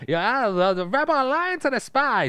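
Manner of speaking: loud, high-pitched mock British farmer accent; David Prowse. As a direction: put on a hammed-up British rural accent, pushed up high. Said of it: "Prowse had a specific British accent".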